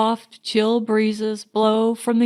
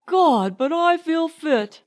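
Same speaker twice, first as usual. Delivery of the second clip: pitched higher, bursting with energy; exuberant; 7 semitones higher than usual. A narrator's reading. Leonard exulting on the beach with Marjorie, exuberant. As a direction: brim over with health.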